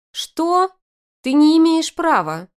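very high, loud squeal; squeaking. A narrator's reading. Arina protesting losing her son, squeaking. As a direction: squeak it in outrage. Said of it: "её писк раздражает".

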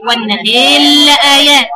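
slow chanted والنهي لآيات with the alif leaning toward ya; recited with imala. Shown as a demonstration. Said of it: "الألف اللي قبلها ممالة".

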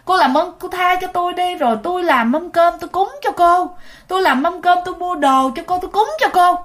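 a lightly played terrified plea for mercy; desperate pleading. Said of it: "ổng van xin".

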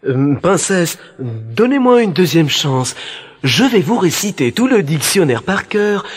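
pleading suitor. Acted. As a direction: beg for another chance, pitch climbing. First brother begs for second chance. (prétendant qui supplie, de plus en plus aigu)

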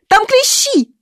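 put-on high falsetto squeak of a scared boy; boy squeaks an excuse to his stepmother in falsetto. A narrator's reading. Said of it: "фальцетом пискнул Родион".

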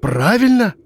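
high, stunned echo of the word; can't believe what she heard; astonished. Acted. Miroslava echoes her uncle in shock, high astonished. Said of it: "Она так удивилась".

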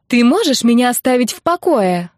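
yelling. Acted. Blonde yells at the pushy young man to leave her. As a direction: yell at him to leave her alone. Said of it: "заорала блондинка".

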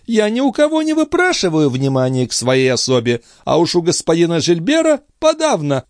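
high, sharp noblewoman's voice; indignant young lady. A narrator's reading. Andrea scolds Gilbert for eavesdropping, indignant. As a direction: pounce on it with disdain.

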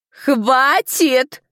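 the stewardess silencing the quarrel; sharp command. A narrator's reading. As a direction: cut them off sharply. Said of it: "резкий голос распорядительницы".

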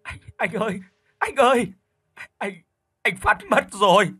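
high, wailing sobs through the news; tearful wail; crying. Acted. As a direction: break down on the phone. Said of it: "nghe thấy tiếng khóc rồi".

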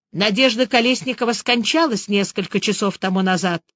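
usual speaking voice

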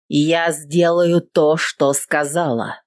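slow, cold and controlled; cold on the surface; outwardly cold. Acted. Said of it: "говорю с внешним холодом".

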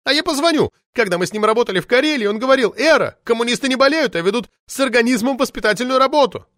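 put-on high, loud indignant shriek of an old party lady; shrill furious official lady yelling; roaring outrage. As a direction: howl it out like an enraged sabre-toothed tigress.

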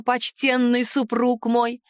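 slow, grandly respectful address; mock reverence. Heroine ends with slow mock-reverent address to husband. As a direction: draw it out with exaggerated ceremony.

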